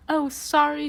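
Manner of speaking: high, loud tearful cry; lost girl weeping on the steps, high tearful cry. Acted. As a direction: wail it through tears. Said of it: "she cried".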